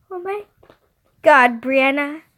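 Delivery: high, loud horrified outburst; total meltdown. A narrator's reading. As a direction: melt down, building to a yell. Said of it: "I had a total meltdown".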